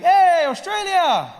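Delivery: high, slow, hammed-up hello; mock cheerful greeting. A tourist arriving greets Australia, high and drawn out. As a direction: call it out like a happy tourist. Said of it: "you're like".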